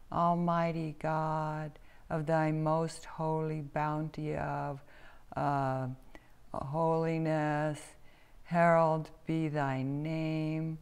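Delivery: slow, halting mock-pious prayer; solemn praying. A narrator's reading. Harley attempts a fancy prayer before friends, slow solemn praying. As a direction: intone it slowly, hunting for holy words. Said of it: "began to pray".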